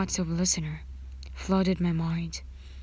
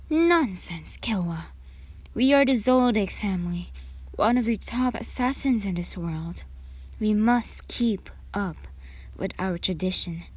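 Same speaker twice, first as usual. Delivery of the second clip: stern declaration; 2 semitones higher than usual. Acted. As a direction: boom it out as the head of an assassin clan. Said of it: "another guy said".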